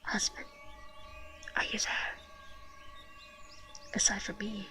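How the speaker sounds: story read in a whisper. Real, not acted. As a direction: hush every word. Reads game text whispering.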